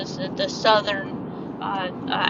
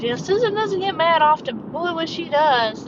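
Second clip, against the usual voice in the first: coworker's teasing; 8 semitones higher, 4 dB louder than usual. Retold or imitated. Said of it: "she goes".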